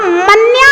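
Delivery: मन्या ending in long aa, no breath after it; wrong manya ending. Shown as a demonstration. Teacher shows students the reading to avoid, open-ended मन्या. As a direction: drop the final h, just मन्या. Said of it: "नहीं पढ़ना".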